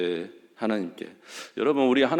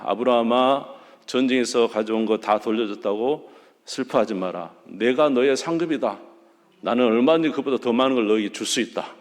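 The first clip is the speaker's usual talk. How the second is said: reassuring God. Acted. God reassuring a frightened Abraham, firm and comforting. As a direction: comfort him like a father who will protect him. Preacher paraphrasing God's reassurance.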